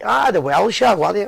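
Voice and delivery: slipping lightly into an Indian accent; a hint of sing-song Indian accent; accidental Indian accent. Real, not acted. Host puzzling over where the whisky is from, accidental Indian accent. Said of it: "I don't know why I'm doing a Indian accent".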